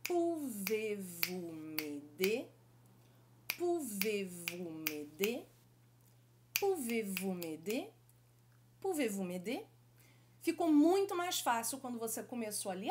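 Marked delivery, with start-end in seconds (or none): 0.0-2.5 a bit faster. Shown as a demonstration. Teacher speeding up French phrase. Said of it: "mais de ritmo". 3.6-5.5 a bit faster. Shown as a demonstration. Teacher speeding up French phrase. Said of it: "mais de ritmo". 6.6-9.6 smooth, quick French question; natural speed. Shown as a demonstration. Teacher reaching natural French rhythm. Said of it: "mais de ritmo".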